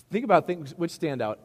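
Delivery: laughing through the line after the mic dropped. Real, not acted. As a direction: chuckle as you repeat it. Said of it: "Did that just go dead on me?".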